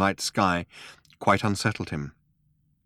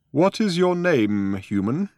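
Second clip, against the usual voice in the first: put-on old man voice; 7 semitones higher, slower than usual.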